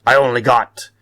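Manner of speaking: hammed-up pirate captain voice; pirate talk. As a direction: play seafarers swapping words in thick pirate speak, building to a big rolling "arr". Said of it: "picture Koxinga talking with one of his admirals, and it might go something like this".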